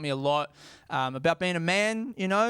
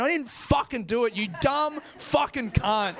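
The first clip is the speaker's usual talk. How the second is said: exasperated self-scolding; 6 semitones higher than usual. Real, not acted. Comedian scolds himself for forgetting the mic, exasperated. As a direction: curse yourself out, stretching the last words.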